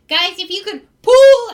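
high call bursting into a yell; goblin calling for help. Acted. Goblin on the rope begs friends to pull, loud high yell. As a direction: yell out the last word. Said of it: "he grabs it, and he's like".

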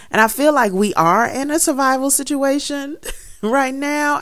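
real nervous laugh breaking into the words; chuckling at how crazy it all is; laughing while talking. Real, not acted. Gardener laughing to her audience about the survival situation, laughing. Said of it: "and I'm laughing".

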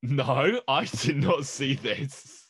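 high, loud, drawn-out mock Italian; slow, indignant fake Italian accent; bad Italian accent. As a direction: answer in a hammed-up Italian accent. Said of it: "somebody doing a bad Italian accent".

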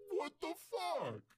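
high, loud hammed-up disbelief; mock outrage. Galactus finds every planet eaten, loud high mock disbelief. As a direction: blurt it like a cheated villain.

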